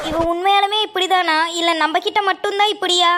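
normal talking voice

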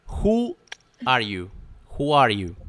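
"Who" as "hoo", then "are you" linked. Shown as a demonstration. Teacher modelling the question for students, O as U. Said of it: "En este caso es una U".

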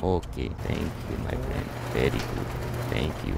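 put-on low, slow accented character voice; put-on foreign character.

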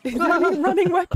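laughing. Real, not acted. Laughing at odd game weapon.

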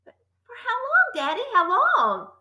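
put-on anxious child's questions, starting high; pleading cry. A narrator's reading. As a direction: plead with Daddy for an answer. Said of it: "Matilda cried".

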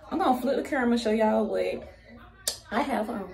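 out of breath, words rushed; breathless, gasping between words; running out of air. Real, not acted. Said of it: "I'm running out of breath".

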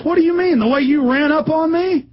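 aping a self-important officer; mock cop voice. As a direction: ham up the officer's indignation. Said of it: "and he goes".

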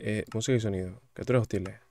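ordinary delivery

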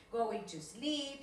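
going to sleep, each word drawn out slowly; slow, clear teacher model. Shown as a demonstration. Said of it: "si quiero decir voy a dormir".

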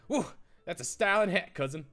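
whooped opener, punchy line read; emphatic cousin greeting. Acted. Reading cousin's praise of the hat, mildly hammed-up emphasis. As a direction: give the game dialogue some emphasis. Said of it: "I had to read it like that".

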